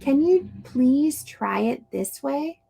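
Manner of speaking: gentle request; nice polite suggestion. Shown as a demonstration. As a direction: suggest it kindly. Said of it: "The nice friend says".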